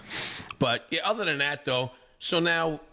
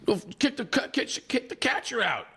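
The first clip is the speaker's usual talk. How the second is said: pitched high, half-hearted retold scream; mock screaming dad; 10 semitones higher than usual. Houston dad screaming at umpires, mock scream. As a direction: demand the ejection like a raging parent. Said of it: "So he's screaming".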